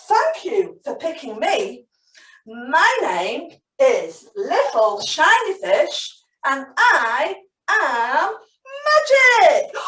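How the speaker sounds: slow, hushed fish voice; little voice. Acted. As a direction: reveal it slowly like a secret. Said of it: "he heard a little voice say".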